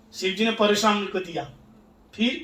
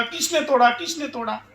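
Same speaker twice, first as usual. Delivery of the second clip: mock angry demand, pitched up then dropping off; angry yelling; 4 semitones higher than usual. Angry sage demands who broke the bow, mock yelling. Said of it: "जब चिल्लाने लगा, क्रोध करने लगा".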